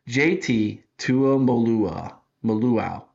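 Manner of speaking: J T Tuimoloau drawn out slowly, trailing into Maluau; working through the name slowly; careful attempt. Real, not acted. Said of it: "I'm gonna get it right".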